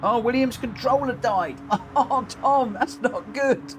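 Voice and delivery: high-pitched, laughing commiseration; real amusement at a mate's mishap; amused dismay. Real, not acted. Amused by driver's dead controller.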